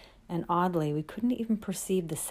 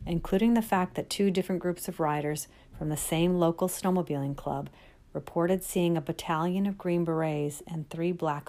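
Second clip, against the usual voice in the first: scary story narration. Acted. Podcast host reading a scary story, hushed. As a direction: read the creepy tale to the listeners.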